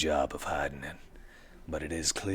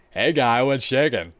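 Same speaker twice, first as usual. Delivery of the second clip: higher, louder streetwise fixer; 9 semitones higher, 12 dB louder than usual. Acted. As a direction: play the slick street dealer. GM voices fixer NPC.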